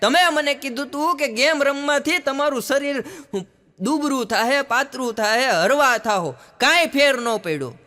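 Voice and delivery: angry complaint. Retold or imitated. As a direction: rant that the treatment failed.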